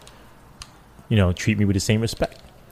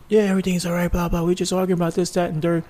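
resident brushing off; 8 semitones higher, 3 dB quieter, faster than usual. Retold or imitated. Retold resident brushing off cops.

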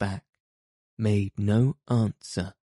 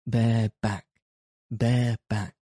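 loud cry; 3 dB louder than usual. Acted. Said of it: "cried the sheriff in a loud voice".

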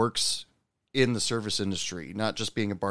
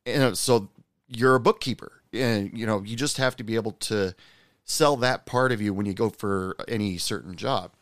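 pep talk; 3 semitones higher than usual. Retold or imitated. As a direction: cheer up a gloomy server, eager.

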